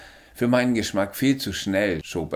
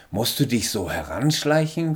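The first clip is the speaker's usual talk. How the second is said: sharp, startled question, a bit louder; startled snap; 5 semitones higher, 5 dB louder than usual. A narrator's reading. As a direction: snap at someone who crept up. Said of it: "fuhr ich auf".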